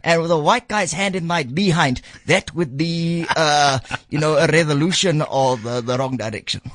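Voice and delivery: ventriloquist's puppet with swagger; cheeky puppet voice. Acted. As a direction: play the cocky puppet Chester, ribbing the host. Puppet Chester voice vs the host's own.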